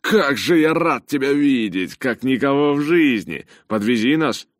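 high, loud, overjoyed greeting; gushing relief at full voice; joyful bellow. A narrator's reading. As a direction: call out with hearty delight. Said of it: "радостно рявкнул в ответ Джонатан".

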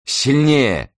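high, drawn-out urgent cry; breathed-out urging. A narrator's reading. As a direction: urge forcefully on one long breath. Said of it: "выдохнула Хелен". (настойчивый возглас на выдохе)

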